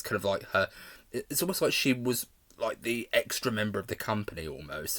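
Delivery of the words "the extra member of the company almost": normal talking voice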